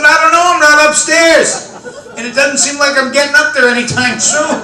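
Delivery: high, loud mock exasperation; exasperated. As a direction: whine it like a trapped husband. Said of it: "I said".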